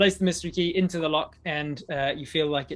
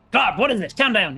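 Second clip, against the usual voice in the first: higher, loud guard voice; guards calling; 7 semitones higher, 10 dB louder than usual. Acted. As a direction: call out to calm him down. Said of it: "they go".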